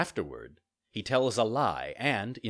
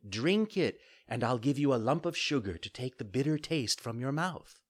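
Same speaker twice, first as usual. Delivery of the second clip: higher motherly fairy voice; patient fairy, coaxing; 4 semitones higher than usual. Acted. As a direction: coax a reluctant child. Fairy figure in story.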